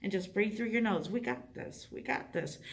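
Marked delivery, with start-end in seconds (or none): 1.1-1.9 reassuring. Shown as a demonstration. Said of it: "Reassure them". 1.9-2.6 breathy and soft, lower; soft reassuring. Shown as a demonstration. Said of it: "Reassure them".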